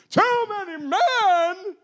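drawn-out high incredulous echo; mock disbelief. Gideon echoing God in slow mock disbelief. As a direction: repeat it in hammed-up shock. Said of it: "You have too many men".

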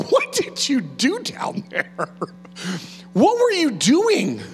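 a mock stern God asking what you did; God questioning. God confronting a soul, slow incredulous questions. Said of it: "he's just gonna look at you and go".

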